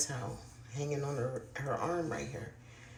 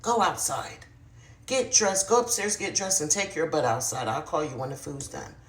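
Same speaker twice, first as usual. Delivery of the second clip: angry snap; 5 dB louder than usual. Retold or imitated. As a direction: bark the orders like an angry mom. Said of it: "she snapped and she was like".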